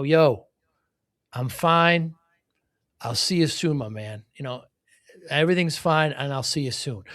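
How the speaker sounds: imitating a thick Bronx accent. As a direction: retell it in a light Bronx accent. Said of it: "in his very thick Bronx accent".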